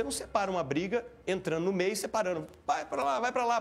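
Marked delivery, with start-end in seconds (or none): 2.7-3.6 higher-pitched, urgent mimicked shooing; mock someone breaking up a fight; mimicked intervention. Imita quem separa uma briga. (imitando quem tenta apartar uma briga)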